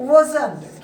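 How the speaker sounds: "wasn't" run together as wuh-zunt; British-style contraction. Shown as a demonstration. Teacher models British contraction for students, "wasn't" as wuh-zunt. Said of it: "British style में बोलते हैं".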